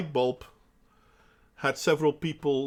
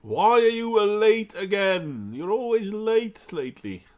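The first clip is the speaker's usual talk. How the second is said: mock scolding; 4 semitones higher, 4 dB louder than usual. Mock scolding a late friend.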